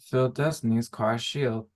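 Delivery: put-on slurring as if drunk; slurred words. Tipsy party member chiming in, slurring her words. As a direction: let the words run together loosely. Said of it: "Crash is kind of slurring her words".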